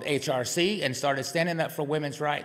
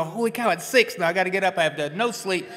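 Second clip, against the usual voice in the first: raised, alarmed blurt; panicked realization; 4 semitones higher, 4 dB louder than usual. Retold or imitated. Waking at six after a sleepless night, alarmed. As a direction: snap awake to the clock in dismay. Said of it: "all of a sudden you go".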